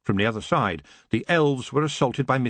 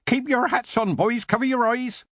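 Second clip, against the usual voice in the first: put-on much higher warning cry to the boys; yelled warning; 12 semitones higher than usual. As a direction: call out a warning across the field. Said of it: "Mister Sideways yelled".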